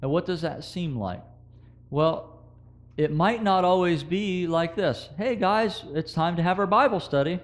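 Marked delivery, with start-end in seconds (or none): 5.2-7.4 lightly acted parent calling the kids, higher pitched; a hint of a perfect-family parent; idealized cheery parent. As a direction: gently call the family to study, higher than usual. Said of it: "It doesn't always happen that beautifully".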